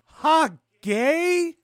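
loud, very high heckle; hammed-up high-pitched taunt; mock jeer. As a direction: jeer with a big upward swoop. Jeering at a declaration of love.

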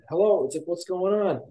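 high-pitched retold radio reply; a hint of another speaker; lightly voiced radio operator. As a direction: answer a distress call, lightly acted. Radio tower answers.

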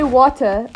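"water" with a pronounced final R; American "water". Shown as a demonstration. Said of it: "That's such an American thing to say".

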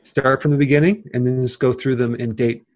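deadpan joke; sarcastic. Pretend. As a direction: say it dryly, tongue in cheek. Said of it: "I'm being very sarcastic".

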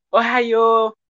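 lightly voiced anime boy; a hint of a nerdy anime fan; anime kid voice. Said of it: "no lo dice así". (voz de anime ligera)

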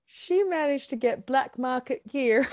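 laughing through the words. Real, not acted. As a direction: say it while laughing. Amused by grandma's smuggled golf balls.

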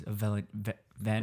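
stumbling through braces; tongue tripping over braces; braces lisp. Real, not acted. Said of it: "hard word to say with braces".

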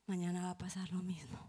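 hopeless unvoiced whisper. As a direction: breathe it out with no hope left. Desesperanza de niña abusada. (susurro desesperanzado)

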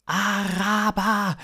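high, loud, drawn-out alien voice; slow high-pitched extraterrestrial; alien stranger. Acted. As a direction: stretch the word out in a high alien call. Strange alien's one-word utterance.

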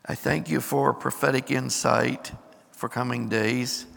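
steady prayer to the Lord; public prayer. Acted. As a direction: pray aloud over the church. Leads congregation in prayer.

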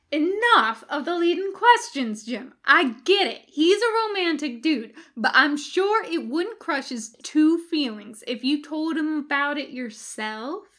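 loud, high exasperated reply; irritated Bones. A narrator's reading. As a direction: cut off the questions. Bones snaps back.

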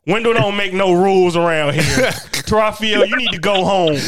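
imitated motherly telling-off, amused; mock stern mom. Mom sends friend home.

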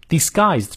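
"disguised" given full stress. Shown as a demonstration. Teacher marking sentence stress, "disguised" stressed. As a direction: lean on the word "disguised". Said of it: "disguised重读".

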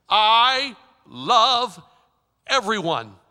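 loud, commanding voice of God; booming divine voice. Acted. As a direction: proclaim it like heaven speaking. God's voice repeats.

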